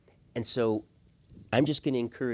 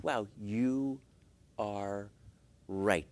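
humble admission; 5 semitones lower, 6 dB quieter, much slower than usual. Acted. Models conceding to wife.

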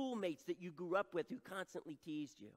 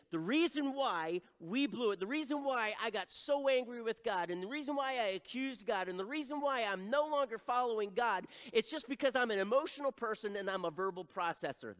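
acted excuse; 5 semitones higher, 6 dB louder than usual. Acting out a string of excuses.

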